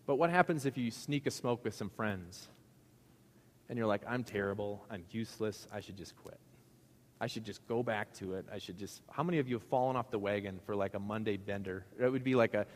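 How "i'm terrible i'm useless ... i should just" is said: mock self-pity. Quoting a guilty ex-smoker.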